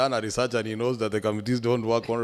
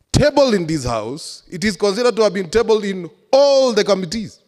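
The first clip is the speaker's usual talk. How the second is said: shouting order order; 7 semitones higher, 5 dB louder than usual. Real, not acted. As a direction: hammer the point home angrily. Heated objection in assembly debate.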